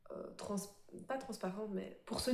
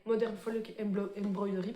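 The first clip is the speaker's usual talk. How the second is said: English title in a French accent. Real, not acted. Crafter naming an embroidery pattern designer, French-accented English. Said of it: "avec mon magnifique accent anglais".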